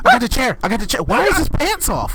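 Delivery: high, loud chaotic yelling; hammed-up frantic screaming; panicked shouting. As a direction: yell over a wild scuffle. Skit chase, panicked shouting.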